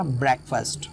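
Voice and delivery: ब्रेकफास्ट with ब्रेक stressed; stress on first syllable. Shown as a demonstration. Teacher showing noun stress, ब्रेकफास्ट stressed at the start. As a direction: lean on ब्रेक, let फास्ट fall in ब्रेकफास्ट. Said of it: "starting में इसका stress होगा".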